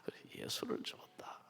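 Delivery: awed whisper. Real, not acted. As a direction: let the truth sink in.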